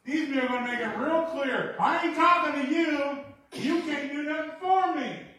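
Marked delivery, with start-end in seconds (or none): 1.8-5.2 high, loud desperate cry across a distance; calling out loud. Acted. Lepers shouting across to Jesus, desperate loud calling. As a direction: shout for his attention over the crowd.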